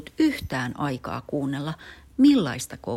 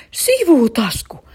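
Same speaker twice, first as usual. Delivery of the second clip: high, slow, loud eureka cry; exclaiming; 11 semitones higher, 9 dB louder, slower than usual. Acted. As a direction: cry it out as the answer hits. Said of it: "äiti huudahti isälle".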